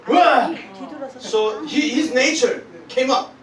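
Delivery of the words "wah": mock bear roar. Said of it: "This baby bear go".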